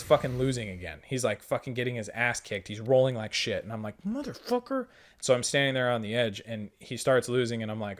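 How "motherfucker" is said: exasperated curse. Retold or imitated. Frustrated at losing ally.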